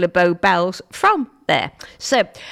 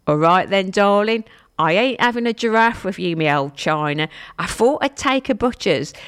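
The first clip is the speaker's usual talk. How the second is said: hammed-up Cockney with dropped consonants; bad East London accent. Shown as a demonstration. Radio host showing listeners rhyming slang, bad East London accent. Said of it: "East London accent you've ever heard".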